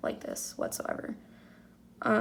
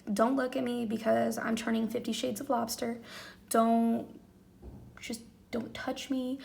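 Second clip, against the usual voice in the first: retold desperate plea, rising to a loud cry at the end; imitating herself begging not to be looked at while sobbing; retold ugly crying; 3 dB louder than usual. Mom retelling crying on the phone to her husband, mock desperate sob. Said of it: "I called my husband and I cried".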